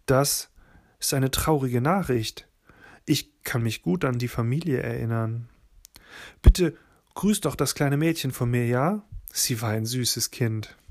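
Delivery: steady, even read-aloud storytelling voice; story narration. A narrator's reading. Narrator reads a book chapter to podcast listeners, calm storytelling.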